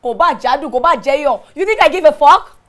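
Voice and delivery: loud outburst at him; angry shout. Acted. Wife shouting at her cheating husband, angry.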